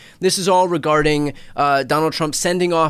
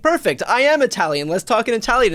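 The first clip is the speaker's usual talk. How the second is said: higher, bright mock enthusiasm; eager reply; 7 semitones higher than usual. Eager stranger answering the liar, mock glee, higher. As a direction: play the delighted Italian speaker. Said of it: "And they're like".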